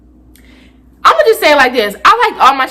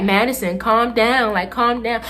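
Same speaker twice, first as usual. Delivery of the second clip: calming principal; 5 dB quieter, slower than usual. Retold or imitated. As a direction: gently talk the student down. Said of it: "he calmed me down".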